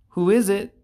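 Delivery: high squawky parrot call. Acted. Parrot calls to the knocking plumber, high and loud. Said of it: "the parrot called".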